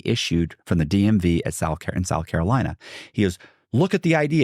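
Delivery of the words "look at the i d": high, insistent imitated protest; mock hollering. Investigator urging officer to check, mock hollering. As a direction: point it out in a high mock yell. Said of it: "he's screaming, hollering".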